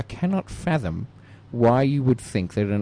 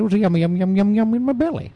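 sing-song yum; 10 semitones higher, 5 dB louder, faster than usual. Pretend.

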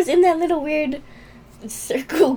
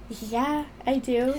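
obvious; 5 dB quieter, slower than usual. Retold or imitated. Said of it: "You said it like it was obvious".

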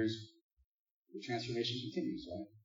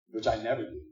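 sarcastic; 7 dB louder than usual. Shown as a demonstration. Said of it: "That was sarcastic".

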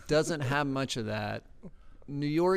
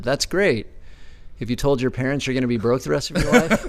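laughing quote; 6 dB louder than usual. Retold or imitated. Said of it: "and he said".

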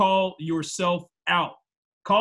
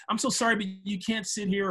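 higher-pitched mock polite apology; put-on customer-service "so sorry"; fake-nice customer service; 4 semitones higher than usual. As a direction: politely refuse like insincere staff. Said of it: "They're just saying that just to be nice".

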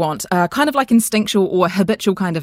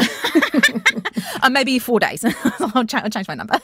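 laughing, voice jumping high; 6 semitones higher than usual. Real, not acted. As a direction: laugh through the words. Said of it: "that sounds like a long time".

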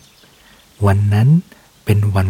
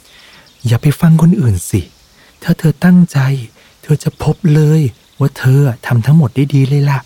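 higher and louder, slow encouragement; eager urging; 6 semitones higher, 4 dB louder than usual. Acted. The mouse urging Mode not to listen, high loud encouragement. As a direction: cheer him on, high and loud.

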